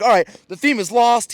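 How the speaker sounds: high, bright-voiced mock flamboyant greeting; flamboyant storyteller. Storyteller greeting the audience on stage, playful flamboyant mimicry. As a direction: toss out a showy hello to the crowd. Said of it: "like, flamboyant vibe".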